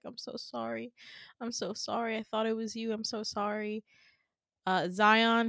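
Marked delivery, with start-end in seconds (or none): 0.0-3.8 soft, hushed mock apology; grieving apology. Adam cradling his dead friend Todd, softly grieving. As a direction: quietly voice a heartbroken friend's regret. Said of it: "he's just cradling his body and he's like".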